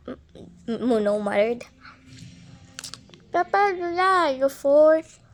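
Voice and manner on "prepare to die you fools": villain threat. Acted.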